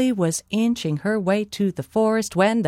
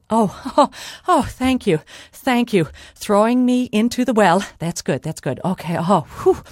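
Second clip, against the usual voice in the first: a touch of gushing relief, tailing into a sigh; feigned relief; 3 semitones higher than usual. Acted. Molly thanks the giant for the well, mock relief. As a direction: lightly act relieved and grateful.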